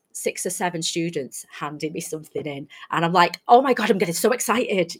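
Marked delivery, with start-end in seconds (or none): 3.5-5.0 over-the-top excitement. Retold or imitated. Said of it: "I go proper over the top".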